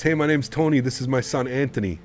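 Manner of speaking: imitating Tony. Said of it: "the way he said it".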